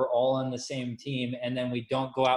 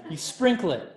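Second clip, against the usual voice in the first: "You sprinkle it" said louder and higher, stressing "sprinkle"; emphatic repeat; 5 semitones higher, 5 dB louder than usual. Shown as a demonstration. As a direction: drive home "sprinkle" with more push.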